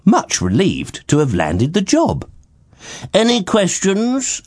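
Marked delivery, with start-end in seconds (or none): 3.1-4.4 slow, authoritative king; with authority. Acted. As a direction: speak down from the throne. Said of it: "asked the king with authority".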